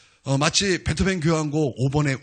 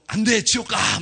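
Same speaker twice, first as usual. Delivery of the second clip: mock threat; 7 semitones higher, slower than usual. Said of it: "협박하면서".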